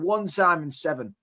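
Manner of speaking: "One time in seven" said slowly, word by word; slow down on "One time in seven" to rub it in; emphatic repeat. Real, not acted.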